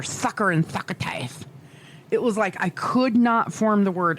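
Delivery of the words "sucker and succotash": lightly lisping cartoon cat; Sylvester. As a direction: spit out a sloppy lisp. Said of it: "I sounded like Sylvester".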